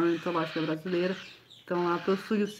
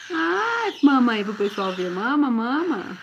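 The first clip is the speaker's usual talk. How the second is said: put-on baby talk; 3 semitones higher, slower than usual. Fala infantil com o filhote.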